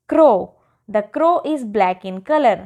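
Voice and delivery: put-on each sentence read out very slowly for children; slow dictation. Teacher reading model sentences to young pupils, very slow and clear. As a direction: spell the sentence out word by word like a patient teacher.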